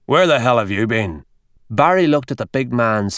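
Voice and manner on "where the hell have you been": a mildly gruff, menacing growl. A narrator's reading. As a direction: rumble it at the young doctor. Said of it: "growled O'Reilly".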